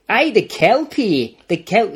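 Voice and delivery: a hint of a small girl calling; lightly voiced little girl. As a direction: call out like a child in a story.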